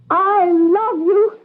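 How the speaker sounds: slow tender plea. Acted. Pris pleading to Joe.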